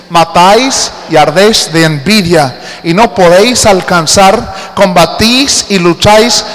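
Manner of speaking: slow, firm Bible reading; scripture reading. Acted. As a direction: proclaim each verse. Reads scripture emphatically.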